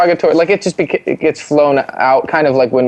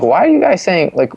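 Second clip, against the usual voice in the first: mock bewilderment, pitch jumping up; baffled questioning; 5 semitones higher than usual. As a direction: retell it as a puzzled kid. Acting out his baffled younger self.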